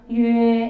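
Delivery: 유에 called out loud, clearly gliding to 에; model syllable. Shown as a demonstration. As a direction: shout 유에 for the class to copy. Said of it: "유에라고 읽으셔야 돼요". (크게 외치는 유에 시범)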